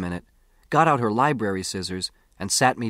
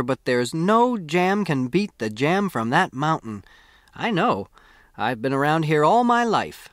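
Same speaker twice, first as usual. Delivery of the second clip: a hint of a proud mountain granny rattling on; chatty old woman; 3 semitones higher than usual. Narrator voices chatty old woman.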